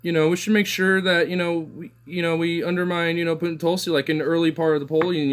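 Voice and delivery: high-pitched mocking make-believe voice; mock party insiders. Commenter voicing party bosses who control polls, high mocking voice. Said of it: "gonna just be like".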